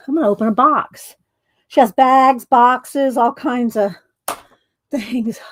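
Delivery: panting after running upstairs; breathless, catching air between words; out of breath. Real, not acted. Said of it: "Oh, let me catch my breath".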